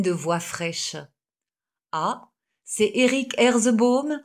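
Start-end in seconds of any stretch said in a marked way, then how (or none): 1.9-4.2 higher, rising question on Herzebaum; "Herzebaum" drawn up in a rising, curious tune; amused surprise. A narrator's reading. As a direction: repeat the name as if pleasantly surprised. Doctor repeats the pupil's name.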